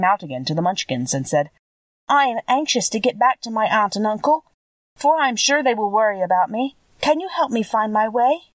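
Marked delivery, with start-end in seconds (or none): 2.1-8.4 higher, lightly voiced girl; a hint of a worried little girl; young girl Dorothy. Dorothy asking the Munchkins to help her home, higher girl voice.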